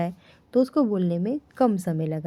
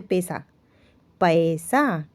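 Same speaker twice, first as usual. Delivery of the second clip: ordinary delivery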